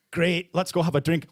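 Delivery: lightly put-on Scottish accent; accidental Scottish accent. Comic voicing their Irish side, drifting into a Scottish accent. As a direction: slip into a bit of a Scottish accent. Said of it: "Why am I doing a Scottish accent?".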